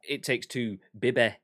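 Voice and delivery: lightly Scottish "It takes two, bibby"; hint of a Scottish accent; mild Scottish accent. Shown as a demonstration. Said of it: "we need a Scottish person to say".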